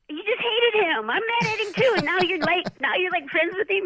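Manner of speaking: Billy Mott's voice. Retold or imitated. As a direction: mimic the trainer's disbelief.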